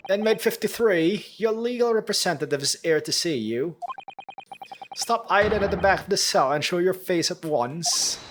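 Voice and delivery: stern guard. Acted. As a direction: bark it like a prison warden. Game guard addresses prisoner.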